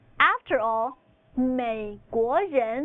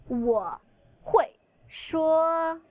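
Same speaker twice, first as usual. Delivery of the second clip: slow repetition; 4 semitones higher, much slower than usual. Shown as a demonstration. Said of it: "Now say, "I can speak".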